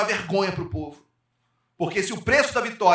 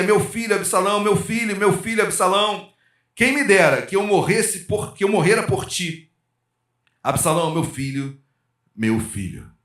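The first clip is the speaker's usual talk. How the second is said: lamenting father; 3 semitones higher than usual. Acted. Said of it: "E andando dizia".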